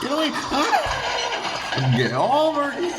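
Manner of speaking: loud, strained shouts rising high; fighting shout. Acted. Engine fighting off a ghost, shouting. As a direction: shout as if fending off an attacker.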